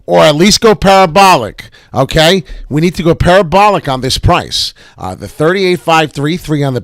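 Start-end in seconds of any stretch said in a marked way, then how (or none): 0.1-4.7 excited. Real, not acted. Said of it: "urging a rally".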